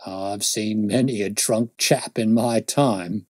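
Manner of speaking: slow, amused policeman reminiscence; grinning constable. Acted. Constable recalls drunks to the detective, slow wry amusement. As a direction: say it slowly with a slight grin. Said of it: "features broadened into a grin".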